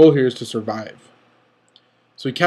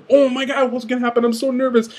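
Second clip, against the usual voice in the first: retold nervous excitement; 9 semitones higher, 3 dB louder than usual. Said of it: "I was like".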